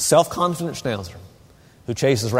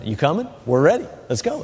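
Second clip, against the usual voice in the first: eager dog voice; 2 semitones higher, faster than usual. Pretend. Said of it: "she stops and turns around".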